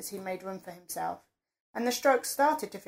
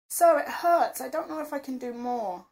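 pained plea; 5 semitones higher, 7 dB louder than usual. Acted. Character pleads with Sir in pain.

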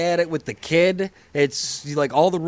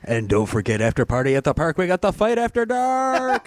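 booming hype announcer voice; monster truck ad; 3 semitones higher than usual. Acted. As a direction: sell it like a Sunday Sunday ad. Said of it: "a lot of monster truck commercials".

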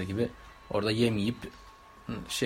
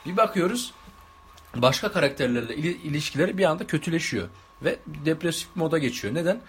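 hoarse, voice breaking high; strained voice; 5 semitones higher than usual. Real, not acted. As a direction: push through a failing voice. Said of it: "sesim gitti".

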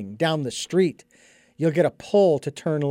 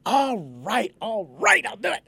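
grudging surrender; 4 semitones higher than usual. Retold or imitated. Man yielding to an insistent inner prompting, grudgingly. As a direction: give in under nagging, dropping off at the end.

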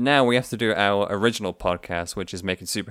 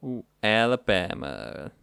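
slow, drawn-out mock American Southern accent; lightly hammed-up American accent, lingering on each word; 2 semitones lower, 3 dB quieter, slower than usual. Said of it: "That's my American accent".

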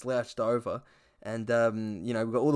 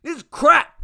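whiny Duck; 9 semitones higher, 10 dB louder than usual. Retold or imitated. Duck complaining about Shane Warne, high loud whinge. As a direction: whinge it pitched way up. Duck voiced in retold sketch.

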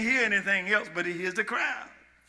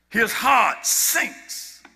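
slow and heavy; 3 semitones higher, much slower than usual. Real, not acted. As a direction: drag each word out slowly. Slow dramatic sermon beat.

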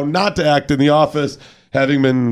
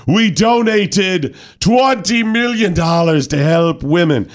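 mock corporate statement; 5 semitones higher, slower than usual. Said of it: "they get to say".

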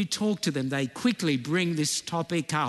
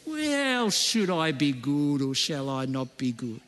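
mock deliberating. Preacher acting someone debating whether to be kind, mock deliberating. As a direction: weigh it up like a grudge-holder. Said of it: "he crosses his arms and thinks".

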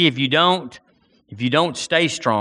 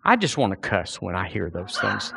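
laughing; 8 semitones lower, 5 dB quieter than usual. Real, not acted. Laughs while talking.

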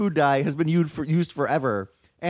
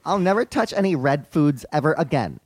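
lightly voiced white-girl caricature; a hint of put-on white girl; white girl impression; 2 semitones lower than usual. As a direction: read it as a mock white girl. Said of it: "He does a good white girl".

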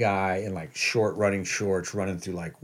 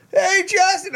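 much higher, sing-song friendly hello; cheery neighbor greeting; 6 dB louder than usual. Retold or imitated. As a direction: chirp it like a bright real estate agent.

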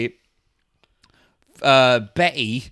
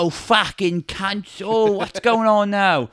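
exasperated gangsters; 4 semitones higher, slower than usual. Acted. Cheated gang reacts in retelling.

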